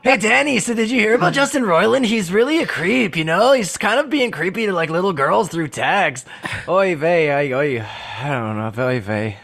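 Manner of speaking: a hint of the Boys cast voice; mock cast banter, fading at the end; Boys cast impression. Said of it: "your impression of the boys cast".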